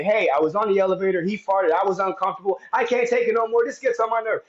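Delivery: lightly voiced fussy neighbor; complaining neighbor. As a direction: mimic a fussy neighbor tattling to the office. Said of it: "the neighbor can go to the office and say".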